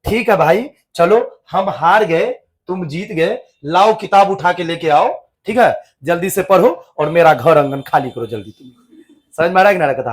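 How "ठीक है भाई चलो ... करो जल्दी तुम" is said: resigned giving in. Retold or imitated. Maulvi grudgingly admits defeat to the stubborn boys. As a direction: give up with a weary sigh in the voice. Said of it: "तब मौलवी साहब कहता है".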